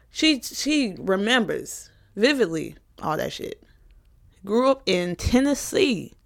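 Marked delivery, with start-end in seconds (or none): 4.4-6.1 slight country twang on "Tennessee"; country accent. Real, not acted. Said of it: "I got the country accent when I just said Tennessee".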